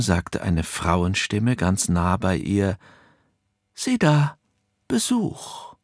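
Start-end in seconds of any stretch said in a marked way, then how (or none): 3.7-5.8 eerie spirit voice. A narrator's reading. Ghostly being greets the visitor.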